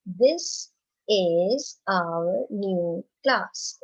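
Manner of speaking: very slow, each word spaced for the class; teacher leading choral reading; slow read-along. Shown as a demonstration. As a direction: drag it out so the children can read along. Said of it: "Read it with me again".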